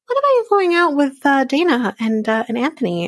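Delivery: sharp high rise on the opening; spring the question on him; pointed question. Retold or imitated. Wife confronting her husband about the outing, pitched high.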